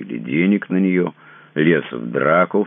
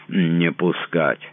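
put-on slow, slurring, loud drunken yell; drunken slurred shout; 4 semitones higher, 4 dB louder, slower than usual. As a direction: shout it thick-tongued and drunk. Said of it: "заплетающимся языком начал кричать".

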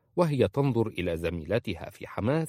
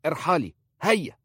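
put-on a higher, louder dismissal in the old woman's voice; curt old woman; 9 semitones higher, 5 dB louder than usual. A narrator's reading. Khalisa sending the young wife away from her door, curt. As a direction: shoo her off sharply.

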